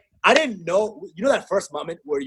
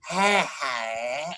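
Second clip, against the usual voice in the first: drunk attempt; 2 semitones lower, 6 dB quieter than usual. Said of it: "sounding like a drunk, uh, Ron Weasley".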